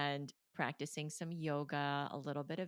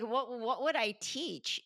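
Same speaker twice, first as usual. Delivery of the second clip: higher, louder and slow, laughing at the very idea; laughing disbelief; 8 semitones higher, 8 dB louder, slower than usual. Retold or imitated. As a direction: laugh it out, slowly, like it's absurd. Laughing disbelief at inner calling.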